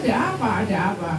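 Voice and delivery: fast, worried ada apa, ada apa; anxious rushed question. Retold or imitated. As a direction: rattle off ada apa twice in a hurry. Friend asks anxiously. (pertanyaan cemas yang cepat)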